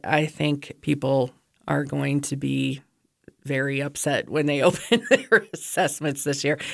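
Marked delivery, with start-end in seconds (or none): 4.6-6.6 uneasy laugh mid-sentence; nervous laugh. Real, not acted. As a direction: laugh nervously through the words. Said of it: "it's nervous laughter".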